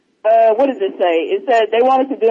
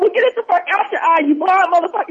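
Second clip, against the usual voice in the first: mock angry voice; 7 semitones higher than usual. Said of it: "They was like".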